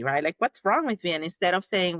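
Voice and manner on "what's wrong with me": high-pitched self-reproach; acted self-judgment. Judging ourselves for our feelings, mock exasperated. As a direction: play at scolding yourself, voice pitched up. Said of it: "we judge ourselves".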